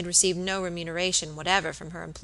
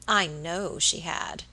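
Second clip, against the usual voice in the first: slow, cold, and certain; frosty decision; slower than usual. Acted. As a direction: say it slowly, shutting the matter. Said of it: "with frosty decision".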